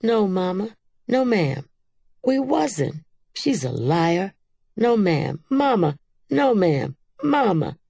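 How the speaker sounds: high, loud frightened pleading; shrill begging not to be whipped; shrieking. A narrator's reading. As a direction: girls crying out to Mama. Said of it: "We began to shriek".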